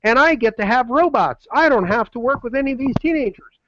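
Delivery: high, gushing mock voice of a thrilled client; imitating Holly. Host voicing Holly's delight at saving money, a high, gushing mock voice. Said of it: "she saw".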